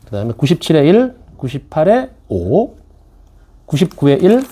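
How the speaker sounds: slow, steady answer-key reading. Acted. Teacher reading the answer key to online students, slow and steady. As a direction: call out each number and answer, slowly.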